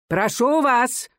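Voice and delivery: высоко и медленно, сердитый старческий окрик; одёрни оратора; окрик старичка. A narrator's reading. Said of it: "крикнул старичок". (старичок-судья возмущённо окрикивает)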